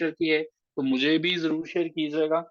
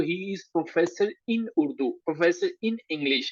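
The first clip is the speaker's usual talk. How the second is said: in drawn out and slowed as the key word; stress on in; much slower than usual. Shown as a demonstration. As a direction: lean on in, slowly, as a model. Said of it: "जिस तरह से आप जो है वो". (in पर ज़ोर देकर धीमा उदाहरण)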